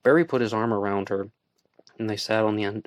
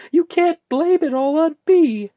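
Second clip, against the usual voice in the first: high, loud indignant retort; 10 dB louder than usual. A narrator's reading. Woman snapping at her friend, indignant. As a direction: fire it back at him. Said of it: "Joanna puffed".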